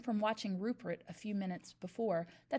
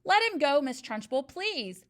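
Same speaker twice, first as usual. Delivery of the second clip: begging; 5 semitones higher, 9 dB louder than usual. A narrator's reading. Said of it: "begged Miss Honey".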